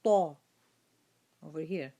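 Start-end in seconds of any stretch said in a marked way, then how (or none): 0.0-0.4 ta announced loud and heavy; letter name. Shown as a demonstration. Teacher introducing the letter ta to students: ta. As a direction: land firmly on ta. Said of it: "Next is the letter".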